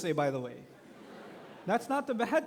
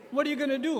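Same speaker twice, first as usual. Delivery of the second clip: pressing dad; 7 semitones higher, 6 dB louder, faster than usual. Acted. Father pressing teen.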